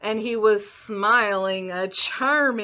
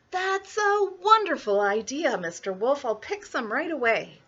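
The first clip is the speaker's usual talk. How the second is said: put-on little girl voice; 4 semitones higher than usual. Girl answers.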